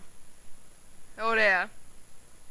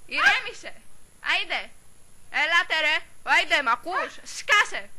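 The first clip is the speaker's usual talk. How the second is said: raised-pitch, forceful commands; heated calm-down orders; exasperated orders; 4 semitones higher than usual. Acted. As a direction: shout someone down. Orders the shouter to shut up.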